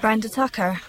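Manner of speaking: answering the phone smoothly; silky professional phone greeting; sultry phone voice. Acted. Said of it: "you have a very sexy telephone voice".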